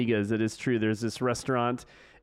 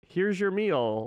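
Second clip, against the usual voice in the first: machine-like robot voice, higher pitch; 7 semitones higher than usual. Describing a restaurant robot that brings out the food, robotic voice. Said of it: "like in this robotic voice".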